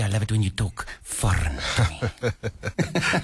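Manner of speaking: slow, teasing, half-laughing line; playful foreign-loving line. Pretend. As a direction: tease it out slowly with a laugh. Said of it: "Say, say".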